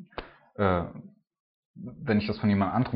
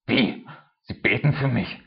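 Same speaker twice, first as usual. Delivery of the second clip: a retold, incredulous question, pitched up; surprised neighbor; 3 semitones higher, 4 dB louder than usual. Neighbor stops yelling from his balcony, stunned and disbelieving. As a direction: play the feuding neighbor caught off guard mid-shout.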